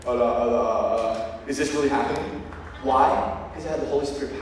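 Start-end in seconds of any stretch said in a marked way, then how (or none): 0.0-2.4 stunned stammer. Retold or imitated. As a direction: stammer in shock. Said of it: "I was like".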